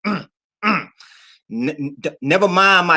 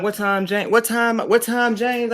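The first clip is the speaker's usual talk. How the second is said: mock impatient; 7 semitones higher, slower than usual. Mock impatient questioning of James.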